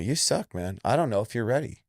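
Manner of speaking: high, blunt coach telling it straight; blunt truth. Retold or imitated. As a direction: give it to him straight, no coddling. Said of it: "Sometimes you gotta tell people".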